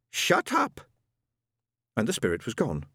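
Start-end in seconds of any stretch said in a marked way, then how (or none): 0.1-0.8 sudden snap. Acted. Ron finally snaps.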